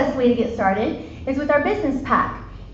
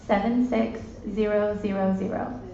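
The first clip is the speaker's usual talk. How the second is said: numbers read slowly, digit by digit; slow repeated dictation; 3 semitones lower, 3 dB quieter than usual. Shown as a demonstration. Repeating the number to the audience, slow and clear. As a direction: read it out slowly so they can type. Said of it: "put in the numbers".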